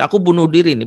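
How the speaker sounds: tinggi, agak keras, mengancam; ancaman nekat. Retold or imitated. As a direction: ancam bunuh diri dengan nada tinggi. Anak mengancam dengan pisau. (suara anak mengancam, nada tinggi)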